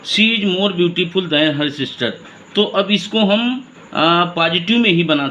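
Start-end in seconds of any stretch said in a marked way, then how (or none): 0.1-2.1 each word slow and separate, like dictating to a class; slow dictation. Shown as a demonstration. A teacher dictating the example sentence slowly to the class. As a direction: read it out slowly so students can write it. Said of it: "ज़रा ध्यान दीजिए".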